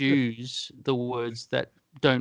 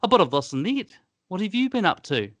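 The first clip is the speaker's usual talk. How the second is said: put-on Kiwi accent; 5 semitones higher than usual. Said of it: "they sort of over-enunciate".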